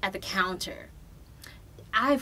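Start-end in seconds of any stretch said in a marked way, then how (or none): 0.0-0.9 bitchy attitude. Retold or imitated. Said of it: "my bitchy attitude just, like, coming up".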